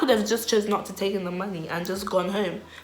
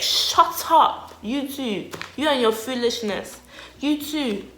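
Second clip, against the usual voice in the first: put-on high, loud telling-off of the boys; retold angry snapping; 6 semitones higher, 4 dB louder, slower than usual. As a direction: act out an exasperated "shut up". Acting out snapping at two boys.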